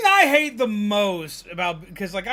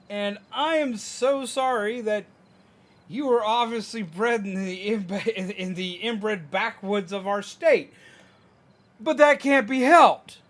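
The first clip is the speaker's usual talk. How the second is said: sarcastic pity; 3 dB louder, slower than usual. Retold or imitated. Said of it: "and I'm like".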